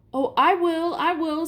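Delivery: put-on high, eager boy's voice; greedy, can't wait to agree. A narrator's reading. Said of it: "said Edmund".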